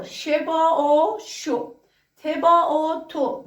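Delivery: ش با او said slowly, then شو clipped short; blending sounds. Shown as a demonstration. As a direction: blend each letter with او into one syllable. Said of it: "اینجا شتو رو ببینید".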